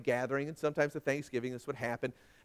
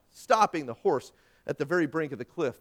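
ordinary talk

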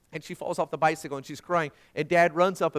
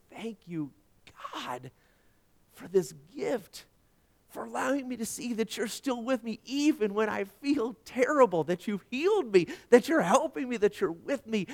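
tearful thanks; 6 semitones higher than usual. Retold or imitated. Man in recliner thanks God for healing, tearful gratitude. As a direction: pray it as if through tears. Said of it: "with tears running down my eyes".

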